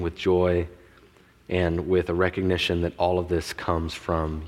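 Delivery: low, measured prayer voice. Real, not acted. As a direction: lead the room gently in prayer. Leads congregation in prayer.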